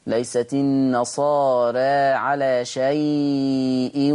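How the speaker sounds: slow drawn-out Quran chanting; tajwid recitation. Shown as a demonstration. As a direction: recite it slowly with measured elongation. (ترتيل قرآني بطيء)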